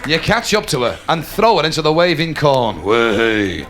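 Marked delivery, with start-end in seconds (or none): 2.8-3.6 low, drawn-out "wahey"; low comic cheer; relishing, drawn-out whoop; lecherous "wahey". Acted. Gleeful cry in dreamy fantasy.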